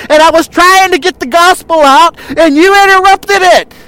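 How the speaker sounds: a pretend aggrieved Jesus, complaining about his ruined roof and preaching; mock indignant Jesus. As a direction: play Jesus as if offended by the interruption. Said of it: "No, Jesus just said".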